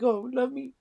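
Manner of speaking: high squeaky voice for the cat. Retold or imitated. Owner voicing his cat's thoughts, high squeaky plea. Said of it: "To look like".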